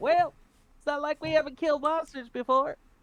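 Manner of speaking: voice pitched very high. A game narrator voices an unseen speaker addressing the party: high voice. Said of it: "you hear a high voice go".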